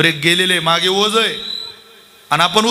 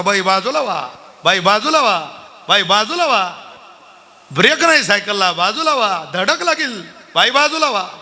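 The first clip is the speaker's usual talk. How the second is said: retold shouting; 2 semitones higher than usual. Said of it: "तेव्हा तर मोठा ओरडत होता".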